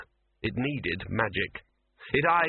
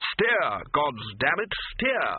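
high, exasperated cursing command; urgent yelled order; 3 semitones higher, much slower than usual. A narrator's reading. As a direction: yell at the pilot. Barked order on a broomstick.

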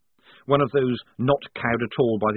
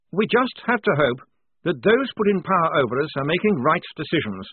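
mumbled; 7 semitones higher, 4 dB louder than usual. A narrator's reading. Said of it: "mumbled Blouse".

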